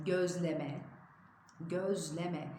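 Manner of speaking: "gözleme" with a voiced initial g; careful "gözleme", said twice; correct pronunciation. Shown as a demonstration. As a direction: begin "gözleme" on g, as göz-le-me. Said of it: "közleme değil".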